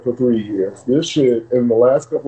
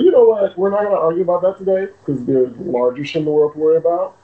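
raised, firm shutdown; 5 semitones higher, faster than usual. Real, not acted. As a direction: cut the argument off high and firm.

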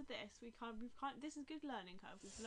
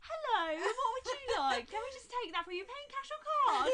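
bored mechanical politeness; 12 semitones higher, 12 dB louder than usual. Retold or imitated. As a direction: switch to chirpy till politeness. Imitating Rachel serving customers.

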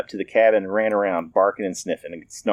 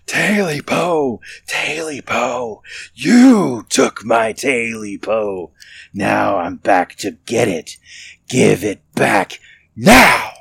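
slow, loud, menacing creature wail; the creature inside now, threatening; loud creature howl; 3 semitones higher, 4 dB louder, much slower than usual. A narrator's reading. Creature inside the house demanding its tail, slow loud howl. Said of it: "the voice was so loud".

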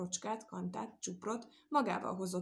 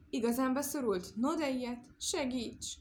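surprised plea; 4 semitones higher than usual. Acted. Cow stuck in tree, surprised and pleading. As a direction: gasp it out, then beg.

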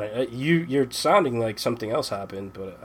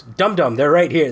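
a light imitation of the wife, louder; wife's retort; 3 semitones higher, 4 dB louder than usual. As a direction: tease him like a wife pointing the obvious. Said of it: "She goes".

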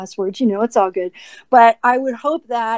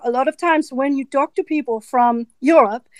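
lightly rolled-out German-accented English. Shown as a demonstration. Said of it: "when I switch to German now".

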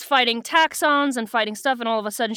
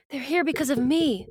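lightly voiced young heroine; Cassie; 4 semitones higher than usual. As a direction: lift the pitch for a guilt-ridden heroine. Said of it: "That's my Cassie voice".

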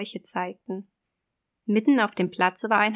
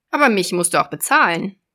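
loud, raised sea witch; 8 dB louder, faster than usual. Acted. Witch voice in fairy tale.

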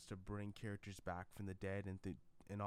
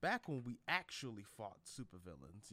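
put-on country old man; 4 dB louder than usual. Old Thor reliving glory days, country-accented. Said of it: "that old man ... relive the glory days".

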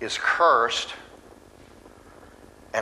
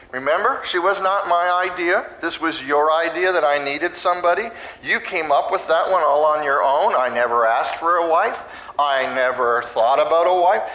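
loud, louder-building complaint; defensive Adam; 4 semitones higher, 5 dB louder than usual. Retold or imitated. Adam blaming God for the woman, loud and defensive. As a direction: whine blaming God for the wife. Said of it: "So what he's saying is".

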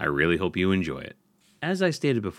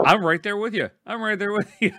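squeaky falsetto voice; high-pitched silly voice; high mock voice; 12 semitones higher, faster than usual.

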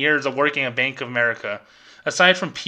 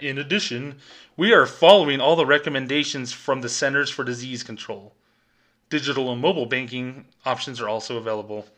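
a hint of a scripted bank rep; lightly voiced corporate reading; stiff corporate phrasing. Teller mocking the bank script, lightly voiced corporate phrasing. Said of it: "who the freak talks like that?".

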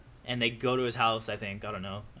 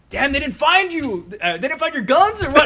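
teasing friend; 11 semitones higher, 7 dB louder than usual. Retold or imitated. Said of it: "he goes".

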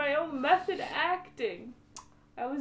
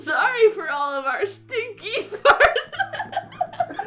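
laughing; 9 semitones higher, 10 dB louder, slower than usual. Real, not acted. Cracking up at own joke.

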